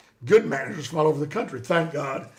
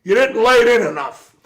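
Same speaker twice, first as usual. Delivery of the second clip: mock boss voice, louder and higher; retold scolding; 4 semitones higher, 9 dB louder than usual. Boss scolding the new guy after his tryout, raised mock voice. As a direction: bark it like the boss unhappy with the slap.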